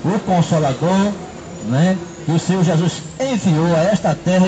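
usual speaking voice

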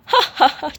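short "haha" laugh at own joke; amused little cackle. Real, not acted. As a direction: burst out laughing briefly.

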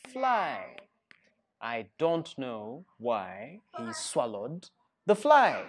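put-on lively, sing-song read-aloud for kids; animated storybook narration; reading to children. A narrator's reading. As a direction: tell it like a storybook to a class. Reads picture book to children.

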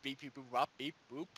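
toy robot voice. Pretend. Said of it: "robot talk".

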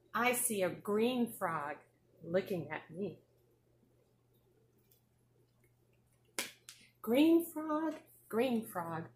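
sing-song picture book reading; reading to a toddler. Acted. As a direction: read it bright and bouncy for little kids. Teacher reads picture book to class.

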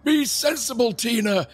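hammed-up scolding; mock Loomis. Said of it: "Loomis turns around to, to Tina and says".

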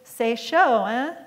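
leering hiss of a French stranger. Acted. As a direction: spit the French words at her. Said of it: "and hissed".

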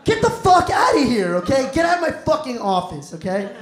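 shooing you out of the office; hammed-up furious old boss; mock angry boss. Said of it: "it's like".

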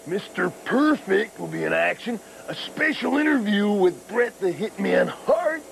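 a hint of Randy Savage growl; Macho Man impression. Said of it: "I am, of course, the Macho Man".

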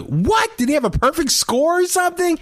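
imitating his own shocked reaction on hearing the champ's score, high and surprised; retold surprise. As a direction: shoot up in mock disbelief. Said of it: "I was like".

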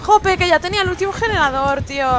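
high, loud complaint after being caught; frustrated outcry. Real, not acted. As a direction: wail your frustration at the absent team. Se queja tras ser atrapada. (queja aguda y frustrada, casi a gritos)

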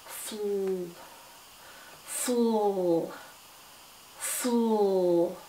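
"Fl-" drawn out as a soft hissing f into l; stretched fl sound. Shown as a demonstration. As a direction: sound out "fl-" slowly. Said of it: "to make one sound".

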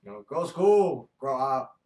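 slow put-on Chinese accent. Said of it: "Tell your life with a Chinese accent".

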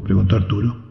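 ordinary delivery

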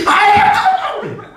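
high-pitched Gyeongsang yelp; 성질 급한 경상도 사람. Acted. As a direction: yelp out like a hot-tempered Gyeongsang bather. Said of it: "경상도 사람은 성질 얼마나 좋잖아". (새된 경상도식 비명)

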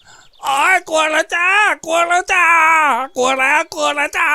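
a beaten thug begging for mercy; whining surrender. A narrator's reading. Wounded Ngaun whimpers his surrender to Samorn. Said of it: "ส่งเสียงนักเลงแบบนอนให้หมาเลียปาก".

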